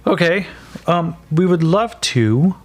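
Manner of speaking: Micah answering the guard through the door; Micah apologetic. Acted. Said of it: "Micah just goes".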